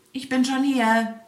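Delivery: hedgehog calling out. A narrator's reading. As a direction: shout it smugly across the field. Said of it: "rief ihm der Igel entgegen".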